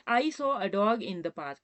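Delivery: very slow, word by word; slow dictation. Shown as a demonstration. Teacher dictating an example sentence to students, very slowly. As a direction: read it out slowly for the class to copy. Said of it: "example ले रहे हैं".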